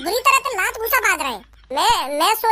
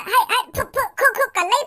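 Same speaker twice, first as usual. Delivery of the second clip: shooing noises; 2 semitones higher than usual. Retold or imitated. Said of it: "तो मैंने खूब चल चल चल".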